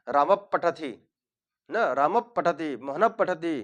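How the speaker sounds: राम पठती run together, the प doubled; quick राम-प्पठती with only a half visarga. Shown as a demonstration. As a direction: say राम पठती fast, no full "h". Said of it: "थोड़ा जल्दी बोलेंगे".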